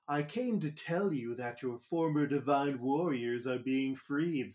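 a light smarmy villain voice; mildly smarmy American dub impression, close to the speaker's own voice; Ino. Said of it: "That's my impression of the American, uh, Ino voice. It's kinda smarmy".

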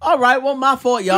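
laughing high and loud; giggly apology. Real, not acted.

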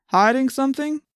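lightly voiced cop's probing question; suspicious policeman. A narrator's reading.

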